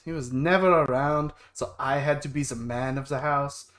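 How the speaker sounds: put-on German-accented older brother. Brother recalling their absent dad, in a German accent. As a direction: tell the grievance in a German accent. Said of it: "Why am I German?".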